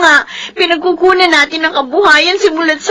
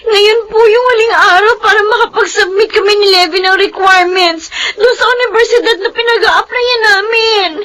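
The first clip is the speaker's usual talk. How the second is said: pleading with mother near tears; tearful pleading; 2 semitones higher than usual. Acted. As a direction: beg her mother, voice close to crying. (umiiyak na pakiusap)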